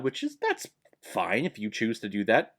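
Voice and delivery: ordinary talk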